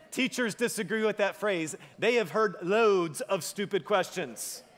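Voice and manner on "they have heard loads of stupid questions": slow, chuckling through the words; laughing. Real, not acted. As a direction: laugh as you tell the joke. Joking about teachers, laughing.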